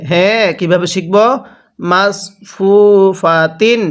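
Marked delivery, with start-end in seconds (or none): 1.9-3.8 "মাস" ending in a full Arabic sad, not a thin s; sad, not sin. Shown as a demonstration. Teacher modelling sad for learners, "মাস" with emphatic s. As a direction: say "মাস ফু ফা তিন" measured, heavy s in "মাস". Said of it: "এরকমভাবে পড়ব".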